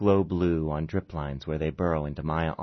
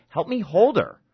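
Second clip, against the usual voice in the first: high, loud shout; the doctor yelling at the frozen husband; urgent call for help; 14 semitones higher, 7 dB louder than usual. Acted. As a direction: call him to action, urgent.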